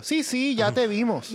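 high, amused brush-off; laughing mock reply. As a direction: dismiss him while laughing. Lee respuesta burlona. (respuesta burlona entre risas)

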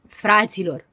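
mild narrated call to the group. Acted. Doctor appeals to his friends, calling out. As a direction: call out with restrained force. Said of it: "strigă doctorul Pilulă".

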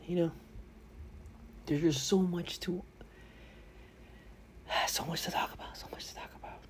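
breathy fading whisper; so much to talk about, trailing into a whisper; overwhelmed sigh. Acted. Overwhelmed sighing.

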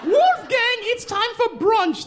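very high, slow call to brunch; posh mother calling. Retold or imitated. Mother summoning Wolfgang to brunch, very high posh call. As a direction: sing it out like a society mom. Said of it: "That's what the woman said".

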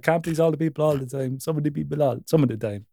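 put-on loose, playful Jamaican accent; mock Jamaican accent. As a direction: toss it off in a rough Jamaican lilt. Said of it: "Jamaican accent".

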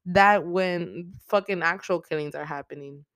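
loud, high disbelieving yell at the screen; shocked outburst. Retold or imitated. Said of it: "I was like".

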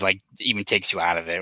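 ordinary talk

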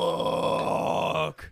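sharp, high, breathless yelp of panic; sudden curse. Retold or imitated. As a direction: blurt it out in shock. Brother suddenly remembers something.

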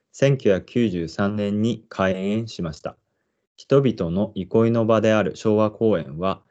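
measured park guide read-aloud; guide narration. Acted. Presenter introducing the park to listeners, guide narration. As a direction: read it out slowly and evenly like an announcer.

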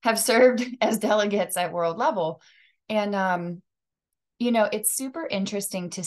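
laughing through a burning mouth; mouth full of hot food. Real, not acted. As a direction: talk past a mouthful of spicy candy. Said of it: "God, my mouth is on fire".

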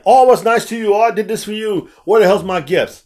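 imitating someone fishing for rewards; hammed-up entitled complaint; mock entitlement. Mocks people looking for blessings.

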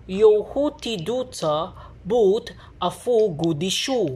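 put-on British accent, dropped r in "daughter"; effortful attempt at a British accent. Shown as a demonstration. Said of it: "British accent, is, it is pronounced".

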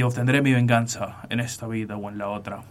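lightly voiced solemn avenger; a hint of amateur movie dubbing, restrained; Máximo. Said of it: "como súper actor de doblaje". (venganza jurada, con leve tono de doblaje)

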